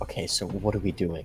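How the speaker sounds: hushed whisper. Retelling what they quietly ask at the table in that moment, whispering. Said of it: "I just kind of whisper like".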